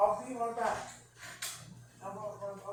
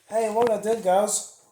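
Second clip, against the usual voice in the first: excited shout; 10 dB louder than usual. Real, not acted. Calls out proudly to viewers.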